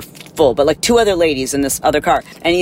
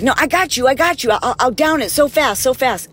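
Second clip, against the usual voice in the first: mock drunk passenger; 8 semitones higher than usual. Mocking the drunk passenger to the flight attendant, high hammed-up promise. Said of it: "and then he's like".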